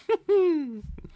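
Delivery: shrill, loud giggle of amusement; high mocking laugh. A narrator's reading. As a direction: laugh high at his expense. Spirit laughs at Duke.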